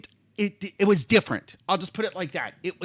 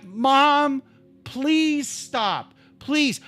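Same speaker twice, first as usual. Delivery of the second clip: higher, imploring retold plea; pleading; 4 semitones higher, much slower than usual. Adult child begs mother in the car, retold pleading. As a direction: beg her to stop, drawing it out. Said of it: "I'm literally pleading with her".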